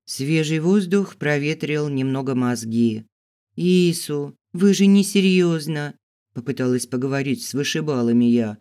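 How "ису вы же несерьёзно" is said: high, urgent appeal; alarmed protest. A narrator's reading. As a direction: plead in a raised voice. Protests to the bouncers dragging her. (встревоженно, умоляюще)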